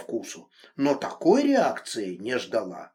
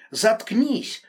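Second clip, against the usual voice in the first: loud, higher furious yell; 8 semitones higher, 5 dB louder than usual. A narrator's reading. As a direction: roar at her to shut up. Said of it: "заорал он".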